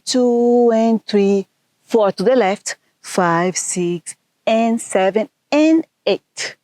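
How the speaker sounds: count-in, slow start, lifting on the last count; dance class count, climbing to the finish; counting dance beats. Shown as a demonstration. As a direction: call the counts in time with the music. Dance teacher counting the beat.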